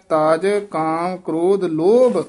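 ਲੋਭ falling, then a short stop; ਲੋਭ ਤੇ ਠਮਕ; slight pause after ਲੋਭ. Shown as a demonstration. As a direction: rest a little after ਲੋਭ. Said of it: "ਇੱਥੇ ਥੋੜਾ ਜਿਹਾ ਠਹਿਰਾ ਦੇ ਦੇਣਾ".

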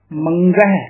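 ਮੰਗਹਿ with a distinct g after the nasal; clear g. Shown as a demonstration. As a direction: sound the g fully in ਮੰਗਹਿ. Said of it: "ਗੱਗਾ ਸ਼ੁੱਧ ਉਚਾਰਨ ਕਰਨਾ ਹੈ".

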